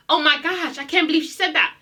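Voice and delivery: lightly put-on shocked innocent; mock innocence. Fan mocking Kenya for playing the victim, mock innocence. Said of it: "try and act all s-, innocent".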